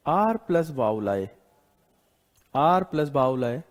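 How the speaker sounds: आर plus vowel आए, each word spaced, slow; slow dictation. Shown as a demonstration. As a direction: dictate the rule slowly. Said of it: "dictating the rule". (धीरे धीरे लिखवाते हुए)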